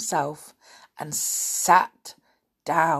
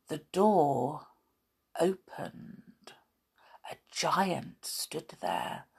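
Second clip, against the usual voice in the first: whispered, slow narration as the door opens; hushed suspense; 7 dB quieter, slower than usual. A narrator's reading. Narrator hushing children at the scary door. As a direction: drop to a whisper for the reveal.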